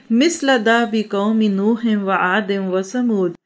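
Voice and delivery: slow, measured Arabic recitation; slow scripture reading in Arabic; Quran recitation. Real, not acted. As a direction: recite the verse with drawn-out vowels.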